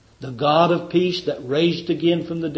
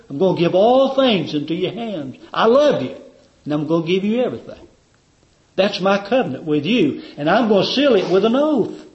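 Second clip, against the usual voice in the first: rising, louder and higher as the Father vows love to his Son; the Father's fervent promise; 5 semitones higher, 5 dB louder than usual. Acted. Preacher voicing God the Father to his Son, building to a fervent loud vow. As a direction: build up like a loving father making a solemn vow.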